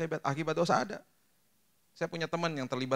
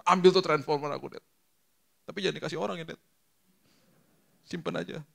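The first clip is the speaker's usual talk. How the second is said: put-on high child's voice; child's plea; 6 semitones higher than usual. A son offering his toy as discipline, high child's voice. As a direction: plead like a little boy. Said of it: "Dia yang sebut disiplinnya".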